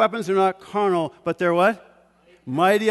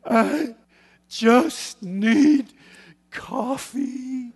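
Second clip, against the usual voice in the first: put-on frazzled child; 7 semitones higher, 3 dB louder, much slower than usual. Granddaughter's meltdown in car seat.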